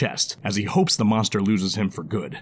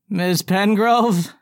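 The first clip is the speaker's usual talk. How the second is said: high, very slow amazed goblin; awed goblin; 10 semitones higher, much slower than usual. Acted. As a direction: ask it in disbelief. Goblin character voice.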